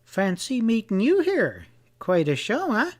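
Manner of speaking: high, languid upper-class voice; high English drawl. A narrator's reading. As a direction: toss it off like an amused English dude. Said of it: "the Englishman's high-pitched drawl".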